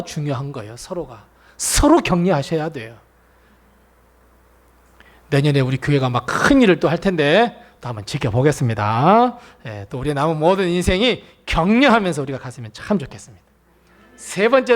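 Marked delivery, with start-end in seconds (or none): none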